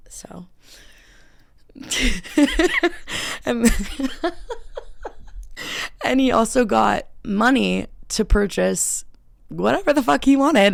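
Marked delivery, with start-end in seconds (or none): 1.7-10.7 high laugh, talking through it. Real, not acted. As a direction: laugh while telling it. Laughing at the story.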